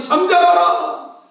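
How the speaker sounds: loud, slow command to the sea; commanding cry. Acted. Preacher voicing Jesus commanding the sea, loud slow command. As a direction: call out slowly, full of authority.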